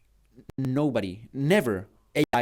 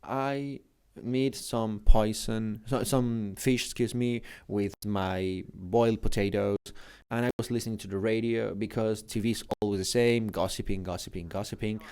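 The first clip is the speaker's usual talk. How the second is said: imitating his old mother; 4 semitones lower, 4 dB quieter than usual. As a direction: lightly voice a lonely elderly mother rambling on the phone. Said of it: "she was, like, talking like this".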